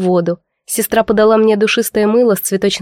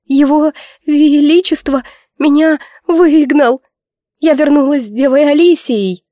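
tearful complaint; 5 semitones higher than usual. Acted. Kamila tearfully tells of expulsion.

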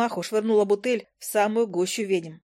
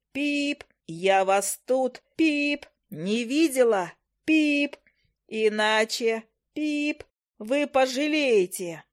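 slow, drawn-out hammed-up bellow; wild yell; 3 semitones higher, much slower than usual. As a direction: roar them out of the tavern, half scared. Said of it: "заорала я дурным голосом".

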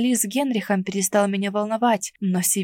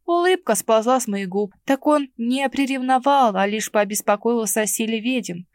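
ordinary talk

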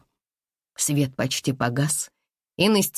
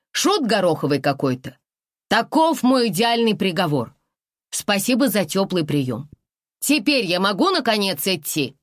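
defiant declaration; 4 semitones higher than usual. Acted. Heroine declares verdict defiantly.

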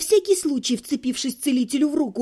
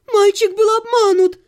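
indignant defense; 6 semitones higher, 7 dB louder than usual. Acted. Parent defends son loudly.

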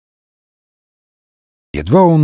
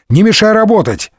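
higher, irritated shooing; annoyed brush-off; 8 semitones higher than usual. Acted. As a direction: send the boy away, exasperated. Annoyed Д'Артаньян shoos boy away.

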